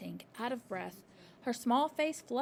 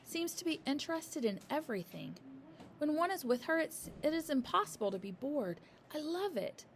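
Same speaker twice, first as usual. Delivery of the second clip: musing to herself; 6 semitones higher than usual. A narrator's reading. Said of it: "Miss Honey told herself".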